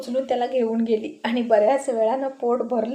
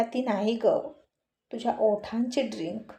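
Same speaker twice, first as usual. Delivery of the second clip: softer, teasing and intimate; soft flirty murmur; 5 dB quieter than usual. A narrator's reading. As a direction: murmur it close to her ear. Flirting with his wife.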